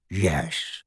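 low soft croak; a grudging low elf yes; croaky house elf. A narrator's reading.

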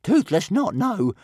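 high, loud, slow creature voice; little dragon voice. A narrator's reading. Dragon answering boy, high and agitated. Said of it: "replied Toothless".

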